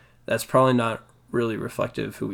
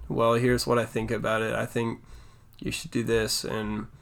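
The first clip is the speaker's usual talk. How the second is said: monotone; 6 dB quieter than usual. Shown as a demonstration. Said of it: "when I talk like that".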